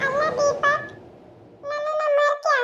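teasing question through a laugh; a laughing spirit teasing an old friend; ghostly laughing. Acted. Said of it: "ಯಾರು ನಗ್ತಾ ಇರೋದು?".

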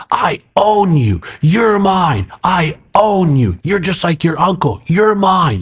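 high, drawn-out possessive mock scream; imitated screaming. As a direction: imitate a possessed man claiming his victim. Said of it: "He's screaming at me like that".

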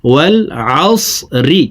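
"আসরি" with a full, thick "স"; thick heavy sad. Shown as a demonstration. Teacher correcting seen for sad, thick "স" in "আসরি". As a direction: make the "স" in "আসরি" heavy, unlike a thin seen. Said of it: "মোটা করে পড়তে হবে".

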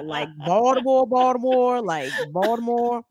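the city's name in a thick Baltimore accent. Shown as a demonstration. Host showing how locals say Baltimore, Baltimore accent. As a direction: demonstrate the local Baltimore pronunciation, repeating it. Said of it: "now that's Baltimore".

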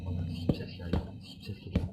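hushed whisper at a noise; tense whisper. Real, not acted. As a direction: whisper so the mob won't hear. Hears a mob, goes quiet. (gergin fısıltı)

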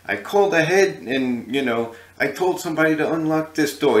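high-pitched indignant complaint; angry imitation of a singer. Retold or imitated. A singer scolding the guys over the door, angry. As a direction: imitate a boss who is put out. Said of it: "he was really angry".

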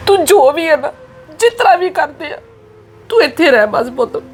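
a mother begging through tears; tearful pleading. Acted. Mother pleads tearfully with daughter not to leave home. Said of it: "ਤੁਸੀਂ ਹੁਣ ਨਾ please ਰੋਵੋ ਨਾ".

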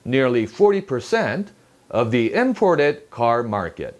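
"of the" said lightly between stressed content words; slow newsreader phrasing with unstressed "of the"; weak function words. Shown as a demonstration. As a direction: relax through "of the", weight on "imported". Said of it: "힘을 빼고 발음하세요".

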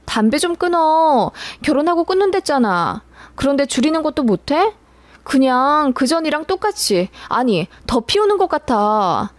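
nagging. Retold or imitated. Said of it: "한 소리 했습니다".

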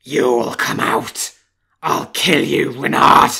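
loud, slow snarling threat; furious threat. Acted. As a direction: bellow it at the fox below. Wolf threatens fox.

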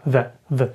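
"the" barely heard, a short unstressed schwa "thuh"; pron: weak "thuh". Shown as a demonstration. Teacher demonstrates the weak "the" to students. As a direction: let "the" slip by as a quick transitional "thuh". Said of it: "ніби як більш як транзитний звук".

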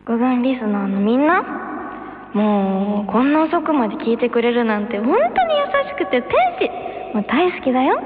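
sugary moe voice; high cute anime girl. Acted. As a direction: gush sweetly to listeners. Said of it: "萌え声姉妹".

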